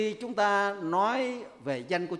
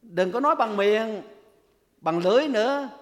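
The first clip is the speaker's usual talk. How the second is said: a commanding, raised rebuke; stern rebuke, louder; 2 semitones higher, 4 dB louder than usual. Retold or imitated. Preacher voicing Jesus rebuking the spirit: raised stern command. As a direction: order the spirit to be silent. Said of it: "Chúa Giêsu bảo Satan, tà ma rằng".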